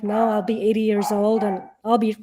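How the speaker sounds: rising to a loud, emphatic close; mock-indignant answer, getting loud; emphatic retort. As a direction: lean hard into the last words. Emphatic reply to people's question.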